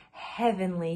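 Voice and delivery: contented sigh. Acted. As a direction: breathe it out in bliss. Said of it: "he sighed".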